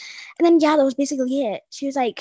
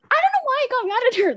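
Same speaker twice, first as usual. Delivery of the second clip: laughing; 12 semitones higher, 3 dB louder, faster than usual. Real, not acted. Laughing at own childish anger.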